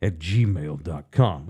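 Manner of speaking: sponsor read in a steady announcer voice; host reading the family lawyer sponsor spot. Acted. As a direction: read it like a radio ad.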